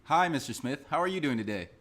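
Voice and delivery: bright, upbeat sales greeting; white telemarketer voice. Pretend. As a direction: sound like a cheerful telemarketer. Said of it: "white telemarketer voice".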